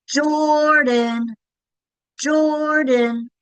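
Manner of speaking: high, drawn-out calling shout; calling the dog. Shown as a demonstration. Teacher demonstrating as if calling a dog, long high call. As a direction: sing out the name, stretching the first syllable. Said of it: "You could also do call the dog".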